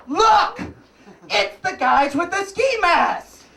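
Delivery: high, slow, laughing exclaim; amused at the guard in a ski mask. Real, not acted. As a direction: point out the joke through laughter. Amused retelling of irony.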